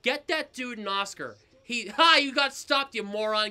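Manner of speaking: loud, worked-up sports tirade; Pat McAfee-style rant. Real, not acted. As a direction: rant indignantly about an overpaid player. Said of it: "doing his best Pat McAfee impression".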